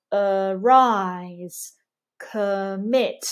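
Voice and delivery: weak neutral "uh" before a strong "rise"; unrounded schwa. Shown as a demonstration. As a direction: say "commit" with an unrounded first vowel, stressed MIT. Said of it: "no lip rounding for the central vowels".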